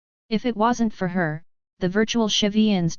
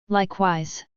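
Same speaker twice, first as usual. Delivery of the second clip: put-on elderly hoarse voice. A narrator's reading. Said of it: "An elderly hoarse voice replied".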